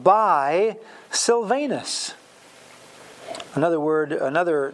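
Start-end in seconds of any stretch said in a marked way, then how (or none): 0.0-2.1 slow reading. Shown as a demonstration. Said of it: "Verse twelve".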